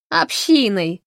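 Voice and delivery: loud, merry correction; cheerful exclamation. Acted. Fanny gleefully corrects the professor. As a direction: toss it out gleefully. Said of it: "развеселилась Фанни".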